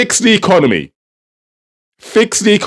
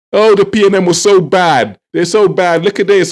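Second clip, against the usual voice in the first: mimicked whining about the opponents, pitched up; mock complaining; 3 semitones higher than usual. Commentator mimics government blaming the PNM, mocking. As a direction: parody their endless blaming.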